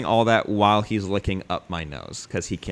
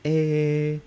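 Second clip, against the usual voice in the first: French maid; 4 semitones higher than usual. Retold or imitated. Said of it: "That's what a maid would say".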